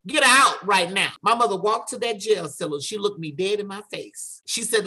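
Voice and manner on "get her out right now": higher-pitched, forceful retold command; mock maternal demand, punched on "out"; acted firm order. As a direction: order it like an angry mother. Mother demanding daughter's release at jail.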